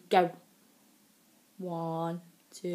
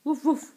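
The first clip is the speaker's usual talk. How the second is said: dog bark; 6 semitones higher, 4 dB louder than usual. Shown as a demonstration. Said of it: "What does the doggy say".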